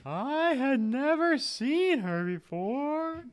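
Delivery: put-on high, slow ghost girl; drifting, wistful ghost. Plays the ghost.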